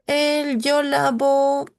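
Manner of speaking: slow, stressed yo; slow example. Shown as a demonstration. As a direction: set out the example slowly. (yo lavo, despacio)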